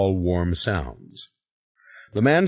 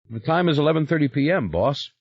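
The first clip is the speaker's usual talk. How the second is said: Henri's voice; 7 semitones higher, faster than usual. Acted. Servant answers the time.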